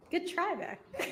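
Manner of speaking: laughing through the words. Real, not acted. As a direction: say it while laughing. Laughs at the timing joke.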